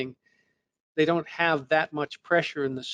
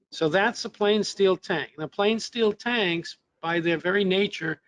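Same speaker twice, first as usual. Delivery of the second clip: tired, hoarse lecturing voice; a real hoarse voice that is giving out; 4 semitones higher than usual. Real, not acted. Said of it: "I'm losing my voice today".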